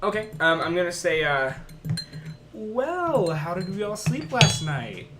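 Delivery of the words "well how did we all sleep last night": sarcastic greeting. Acted. Character greeting Templars sarcastically.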